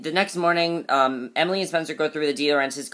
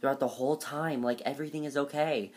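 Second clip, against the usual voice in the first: softer, lightly put-on prissy tone; imitating Mona's voice; 9 dB quieter than usual. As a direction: keep the mock Mona voice going, much softer. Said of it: "she's talking like this".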